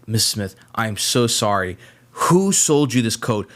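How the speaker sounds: retold apologetic owner. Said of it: "the guy was, like, livid".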